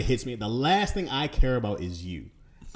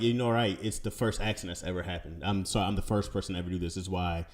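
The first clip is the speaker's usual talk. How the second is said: sarcastic; 6 semitones lower than usual. Acted. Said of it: "Oh, now you sarcastic".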